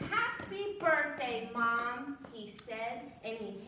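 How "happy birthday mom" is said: slow proud wish. Acted. Froggy gives mother gift.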